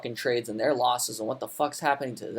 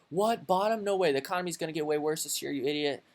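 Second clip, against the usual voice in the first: mock doubter. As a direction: sneer it like a smug critic. Mocking a doubter's reply.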